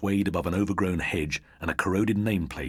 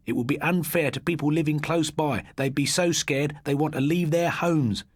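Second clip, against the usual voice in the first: higher voice, building the horror; spooky storyteller boy; 10 semitones higher, 4 dB louder than usual. A narrator's reading. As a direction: tell it to give them shivers. Christopher defends his story.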